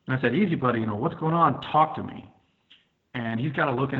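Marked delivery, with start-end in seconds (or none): 0.3-2.3 higher-pitched retold plea to settle down; coaxing, urgent but not shouted; placating appeal. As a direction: talk him down, as retold. Retold attempt to calm attacker.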